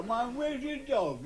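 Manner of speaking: high, slow questioning voice; a touch of a puzzled man asking about the dog; mock surprised question. Joke dialogue, teller voices himself.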